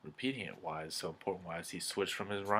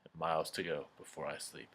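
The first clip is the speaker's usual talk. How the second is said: softer, letting the repeated "and miles to go before I sleep" fall away; whisper-free but softer final refrain; soft echo; 2 semitones lower, 6 dB quieter than usual. Acted. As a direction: let the final "sleep" fade like a closing thought. Echoed closing line, softer.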